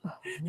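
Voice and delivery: sleepy yawning hum. Real, not acted. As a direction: let out a yawn. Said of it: "I was yawning".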